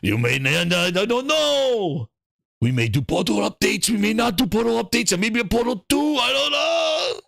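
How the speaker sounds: hammed-up dithering exec, stretched out; Herman Holtz impression. Streamer mocks Herman Holtz dithering on Portal updates, stretched. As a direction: drag out the indecision mockingly. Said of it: "send Herman Holtz out there for a fucking year going".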